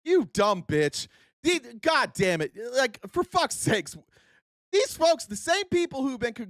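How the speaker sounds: sudden furious blast at the clip, slowing down on the insults; angry outburst. Real, not acted. Streamer yelling at a guest's claims on a clip, furious. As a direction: lose your temper at the screen, spit the insults out slowly.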